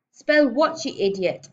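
very loud, high, angry order; exasperated shout. Acted. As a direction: explode at a pupil who fails to understand. Headmistress loses patience with confused pupil.

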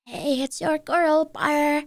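put-on cutesy e-girl voice; sweet girly TikTok greeting. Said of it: "I tried to summon my e-girl voice".

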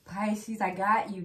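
loud, punchy reassurance; hype-voice reassurance to the viewers. Real, not acted. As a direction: belt it like a promise. Hyped promise to Pisces.

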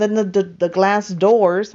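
tripping over the repeated word; real accidental stutter. Real, not acted. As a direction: stumble on "the" before getting the phrase out. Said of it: "I'm stuttering".

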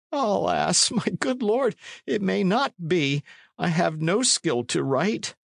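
high-pitched, woeful pleading; pleading old man. Acted. Condall telling the knight he cannot write, pleading. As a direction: lament helplessly in a high voice.

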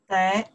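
得 in third tone, dipping then rising. Shown as a demonstration. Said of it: "the third one".

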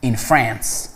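very slow, deliberate English; slow example sentence. Shown as a demonstration. Teacher giving students an English example, very slow. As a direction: read it slowly so learners follow. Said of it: "میگید manufactured".

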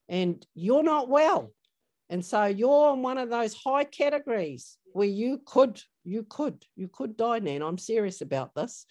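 a mild imitation of a niece pressing her nan; insistent niece. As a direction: niece warning Nan, mildly urgent. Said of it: "And she says".

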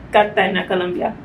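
Cartagena with a light Spanish accent, the g as an h; Cartagena, Colombia in a gentle Spanish accent; Spanish pronunciation. Shown as a demonstration. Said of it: "pronounce things with the accent".

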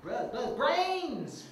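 high, loud snarling zombie cry; zombie growl. Acted. Zombie calls out the attack cue to the pilot, snarling. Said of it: "attack and kill me when I call".

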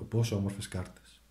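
gentle awe at the cards. Real, not acted. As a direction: murmur it fondly. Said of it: "κοιτάξτε εδώ".

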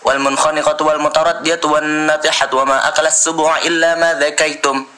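Quran recitation. Acted. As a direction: recite the verse in a measured chant.

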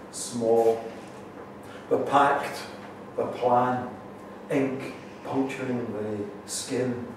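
spare poetry reading, pauses between phrases; measured recital with long gaps; poem recital. Acted. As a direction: deliver each short phrase on its own, spaced out. Reads own poem aloud.

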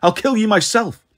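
mildly yelled threat, voice lifted; angry threat. A narrator's reading. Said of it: "Jason yelled".

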